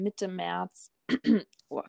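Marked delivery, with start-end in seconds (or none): 1.7-1.8 clearing a lump from the throat; throat clear, then a choked oh. Real, not acted. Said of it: "Kloß im Hals".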